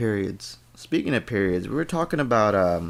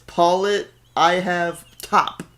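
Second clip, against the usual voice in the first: slow, loud and high, laughing as he reads; reading through laughter; 8 semitones higher, 6 dB louder, much slower than usual. Real, not acted. Reading his friend's misspelt note aloud, laughing hard. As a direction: read the note out, barely holding it together. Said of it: "it says".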